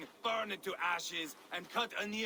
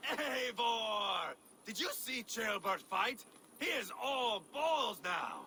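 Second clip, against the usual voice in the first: boastful exclamation; 5 semitones higher, slower than usual. Acted. Boasting after battle.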